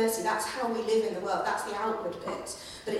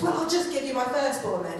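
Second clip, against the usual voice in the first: put-on petulant child; 3 semitones higher than usual. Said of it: "it's like a kind of petulant child".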